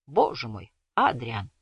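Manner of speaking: mumbled through a biscuit; mouth full. A narrator's reading. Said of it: "с набитым ртом пробормотал он".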